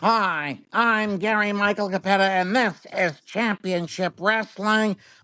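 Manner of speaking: high-pitched voice pushed through the nose. Imitating a wrestling announcer introducing the show: nasal Gary Michael Cappetta impression. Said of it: "his nasally voice".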